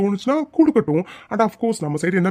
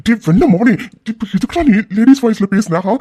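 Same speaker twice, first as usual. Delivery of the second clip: 1 angry scolding; 3 semitones higher, 4 dB louder than usual. Acted. Scolding friend for the prank.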